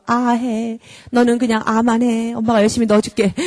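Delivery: fast, sweet spoon-feeding plea; mock indulgent mum begging the child to eat; coaxing doting mother. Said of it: "이러면서".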